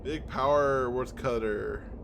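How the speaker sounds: hint of a lofty old tree speaking; solemn tree voice. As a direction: read it as an old forest spirit. Reads talking tree dialogue.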